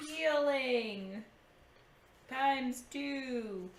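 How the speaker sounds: stretched word, a little singsong; slowly spelling out a list item; drawn-out note-taking. Real, not acted. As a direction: draw it out as you write it down. Noting down items aloud.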